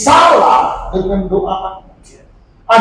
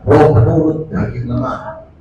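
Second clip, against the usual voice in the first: lower, lazy mock of the excuse; 9 semitones lower than usual. Preacher imitating members skipping church, low mock excuse. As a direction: toss off the excuse like a shrug. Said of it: "kenapa kilaf?".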